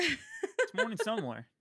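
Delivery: high, slow silly voice. Pretend. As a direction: echo it in a goofy high voice.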